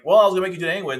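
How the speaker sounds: lightly voiced princess teasing him; mock Yuffie voice. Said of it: "And then she's like".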